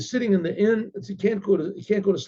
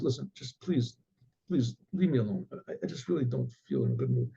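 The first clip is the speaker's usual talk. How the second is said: mildly dejected; 5 semitones lower, 6 dB quieter than usual. Retold or imitated. Weeping man begs to be left.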